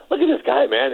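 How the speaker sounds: high, lightly mocking Larry voice; Larry teasing. Larry mocking a muscular opponent, lightly voiced high teasing. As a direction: tease it up high like Larry sizing him up. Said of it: "He goes".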